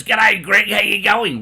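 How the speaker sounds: loud, high broad Aussie "G'day, Greg"; broad Australian greeting. Retold or imitated. Imitating a loud broad Australian greeting a mate. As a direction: boom out an ocker Aussie hello. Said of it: "meet someone that goes".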